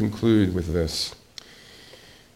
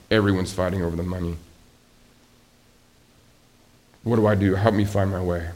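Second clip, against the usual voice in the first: distressed parishioner; 4 semitones lower than usual. Pretend. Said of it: "You come to me and say".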